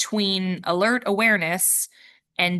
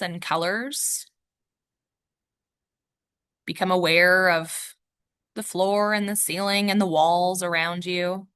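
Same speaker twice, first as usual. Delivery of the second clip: measured meditation guide, long pauses between instructions; guided meditation. Real, not acted. Yoga teacher guiding listeners to notice the room, guided meditation. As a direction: guide listeners gently into noticing, leaving space after each cue.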